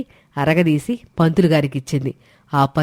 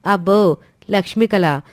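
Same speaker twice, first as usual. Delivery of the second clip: lightly scoffing echo of LAKSHMI KALA; mock awe; 3 semitones higher than usual. Sister scoffing at praise of the daughter-in-law, mildly mocking. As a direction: echo Lakshmi కళ back with mild sarcasm.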